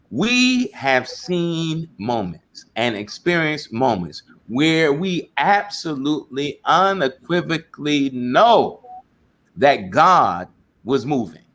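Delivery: deliberate, weighty delivery, word by word; slow right down and land each key word; slow, emphatic. Real, not acted. Slows to emphasize after time out.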